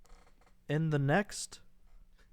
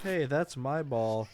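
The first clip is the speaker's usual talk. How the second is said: laughing reread; slower than usual. Acted. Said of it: "Verbatim, please".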